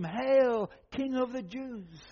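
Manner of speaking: loud drawn-out "Hail" as a mock salute. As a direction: proclaim it loudly like jeering soldiers. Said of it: "knelt in front of him and mocked him".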